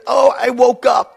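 high, loud, drawn-out imitation of a kid; child's excuse. Child coming into parents' room, high mock excuse. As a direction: play a kid announcing it at night. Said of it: "they'll come in and they say".

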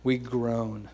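groaned words, drawn out; acted groan. Shown as a demonstration. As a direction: moan the words like a weary sigh. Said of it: "Here we go".

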